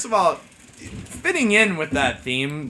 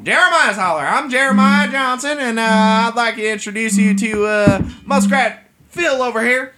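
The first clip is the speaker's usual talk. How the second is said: hillbilly host; 3 semitones higher than usual. Acted. Plays hillbilly host Jeremiah.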